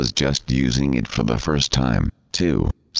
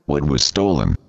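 text-to-speech voice; robot voice; 2 semitones higher than usual. Pretend. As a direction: talks like a computer reader. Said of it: "this preposterous computer talking thing".

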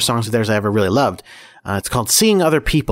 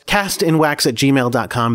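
slow, clear email read; slower than usual. Shown as a demonstration. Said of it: "That's cast in wax at gmail dot com".

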